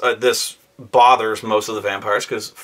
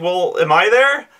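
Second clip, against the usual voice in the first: eager question; 7 semitones higher, 3 dB louder than usual. Retold or imitated. Late player asks eagerly.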